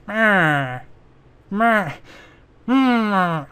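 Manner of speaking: short drawn-out bleats, testing a voice; attempted character noise. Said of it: "I can't do that voice with my mouth".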